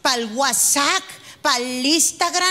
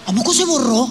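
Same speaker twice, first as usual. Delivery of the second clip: fake innocence; 3 semitones lower, 3 dB louder than usual. Husband fakes innocence.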